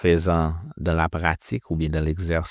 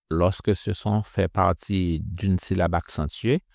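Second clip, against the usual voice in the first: ordinary delivery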